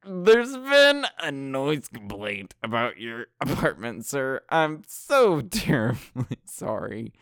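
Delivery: overly polite put-on voice, laughing inside; mock polite caller. Kids pretending to be staff calling grandpa about noise. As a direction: fake a courteous front desk clerk.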